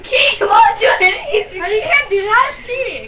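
eating sour candy. Real, not acted. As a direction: cry out with the sour candy in her mouth. Sour candy making her cry out.

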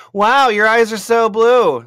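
high, loud and slow, dazzled; hammed-up dazzled admiration; starstruck gushing. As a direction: gush over blue eyes, awestruck. Artist gushes at the Yeti.

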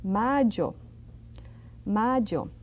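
"mayo" with a strong Y, like dj. Shown as a demonstration. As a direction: press the Y in "mayo". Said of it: "I do it quite strong".

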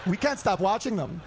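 low, slow, laughing voice; mocking a hateful guy, low and slow; mock bigot. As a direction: drag it low while laughing. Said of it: "And they're like".

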